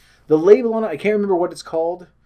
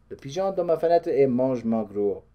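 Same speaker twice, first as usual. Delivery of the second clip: bad French accent; 4 dB quieter than usual. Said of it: "That's the extent of my vocabulary".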